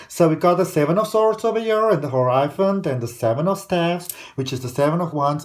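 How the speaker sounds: amateurish American accent; attempted American accent. Shown as a demonstration. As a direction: have a go at sounding American, not very well. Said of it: "Let me try and do an American accent".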